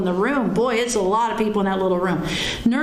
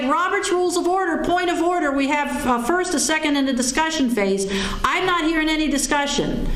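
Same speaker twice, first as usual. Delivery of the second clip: indignant; 5 semitones higher than usual. Retold or imitated. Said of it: "I was ticked off".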